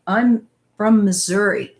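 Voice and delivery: normal talking voice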